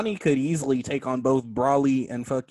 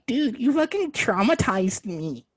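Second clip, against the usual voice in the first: mock traumatized; 9 semitones higher, slower than usual.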